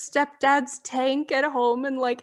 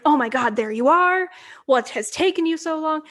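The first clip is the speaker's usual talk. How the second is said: raised, louder exasperated scold; mock annoyed; 3 semitones higher, 3 dB louder than usual. Mall worker scolding a late Missus Claus, mock annoyed. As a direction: play the mall worker snapping at a latecomer. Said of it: "starts getting mad".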